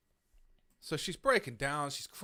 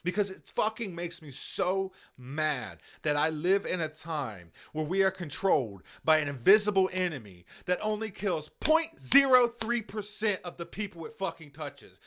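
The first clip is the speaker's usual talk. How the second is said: real anger; 4 dB louder than usual. Real, not acted. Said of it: "it makes my blood boil".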